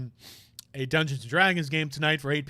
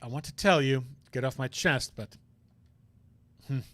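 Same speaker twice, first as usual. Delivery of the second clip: troubled prosecutor; 3 semitones lower than usual. Acted. Voices troubled prosecutor character.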